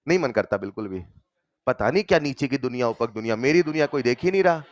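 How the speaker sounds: a student's put-on complaint; mock self-pity. Teacher voicing a student whom nobody notices, mock self-pity. Voices a student feeling ignored.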